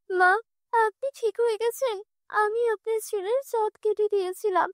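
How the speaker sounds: high, urgent explaining; wife telling her mother-in-law what happened; anxious wife. Acted.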